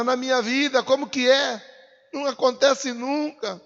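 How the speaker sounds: acted lament, pitched high; complaining prayer. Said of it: "Você falou isso na sua oração".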